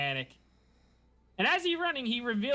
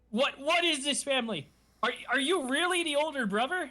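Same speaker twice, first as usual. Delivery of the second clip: higher, stammering mock confusion; flustered con man, lightly voiced; baffled disbelief; 8 semitones higher than usual. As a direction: sputter at this weird family.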